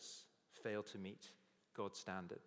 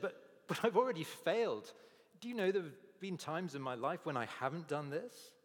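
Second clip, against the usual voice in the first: pleading admission; 5 semitones higher, 4 dB louder than usual. Pretend. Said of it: "the lawyer should have said".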